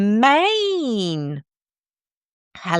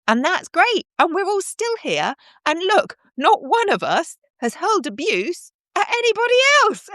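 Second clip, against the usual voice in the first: higher, fervent lecturing voice; emphatic high preaching; 8 semitones higher than usual. Real, not acted. Telling commenters they have a choice, high and fervent. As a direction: drive the point home with rising passion.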